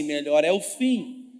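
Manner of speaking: slow, drawn-out call to the crowd; preacher leads the room in a slow chant; call and response. Real, not acted. Pastor makes the congregation repeat slowly. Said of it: "fala comigo assim".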